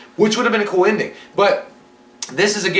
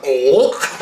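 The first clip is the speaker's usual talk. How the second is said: put-on grunt of taking a blow; Joe Pesci getting hit; 3 semitones lower than usual. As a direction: imitate a comic yelp of pain. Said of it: "It sounded like Joe Pesci getting hit".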